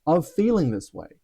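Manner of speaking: soft, very slow gentle question; God's voice. Retold or imitated. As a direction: ask slowly and softly, with quiet compassion. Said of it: "hearing him say".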